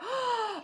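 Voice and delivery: sharp high gasp of delight. Real, not acted. Vlogger seeing a cute keychain, delighted gasp. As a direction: gasp at a lovely find.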